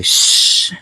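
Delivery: a quick whispered shush; breathy secretive shush; hushing shh. Acted. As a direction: hush him so nobody hears. Hushing friend to keep secret.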